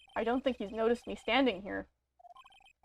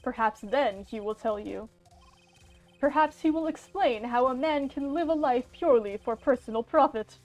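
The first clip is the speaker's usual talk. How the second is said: lightly voiced theatrical villain, slowing on the speech; a hint of a grand, smug game villain; gloating villain. Villain lording his power over the attorney, hammed-up.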